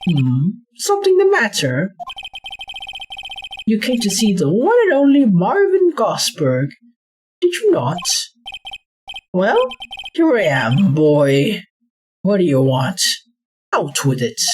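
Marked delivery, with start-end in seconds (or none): 3.7-14.4 a hint of a grand old gentleman; lightly voiced old lawyer. To the visiting boy, a lightly voiced grand old lawyer. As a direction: play him proud and a bit pompous.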